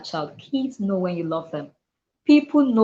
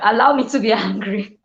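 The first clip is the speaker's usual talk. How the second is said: laughing mock protest; 3 semitones higher, 5 dB louder than usual. Laughing at own retold angry retort.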